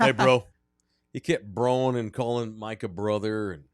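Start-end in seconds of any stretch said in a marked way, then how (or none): 0.0-0.5 loud, mocking bro greeting; put-on bro-speak, punched louder; douchebag bro imitation. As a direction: imitate a douchey coach hailing his bro. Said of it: "He acted like a douchebag".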